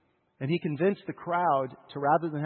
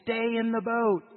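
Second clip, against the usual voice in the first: slow echo; 7 semitones higher, slower than usual. Shown as a demonstration. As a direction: let it settle slowly. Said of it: "That's what all your emotions are gonna call".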